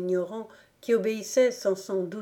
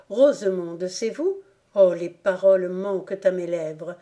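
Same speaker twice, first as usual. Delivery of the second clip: s'écria; 4 dB louder than usual. Acted. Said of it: "s'écria-t-il".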